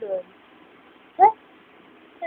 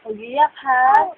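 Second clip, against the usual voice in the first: slow coaxing; slower than usual. Real, not acted.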